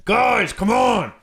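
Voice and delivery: высоко и громко, растянуто «Guys, come on!»; тянет с возмущённым криком; exasperated shout. Real, not acted. Exasperated outburst at casting.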